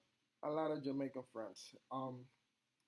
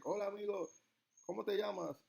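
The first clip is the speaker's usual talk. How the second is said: higher-pitched imitation of American-accented Spanish; 4 semitones higher than usual. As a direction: play an American trying out beginner Spanish. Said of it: "Something like that".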